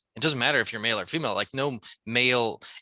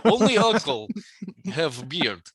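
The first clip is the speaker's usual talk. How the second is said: laughing mock Russian uncle, pitched up; Russian accent; 3 semitones higher than usual. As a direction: crack up while playing a Russian. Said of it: "like Russian uncle".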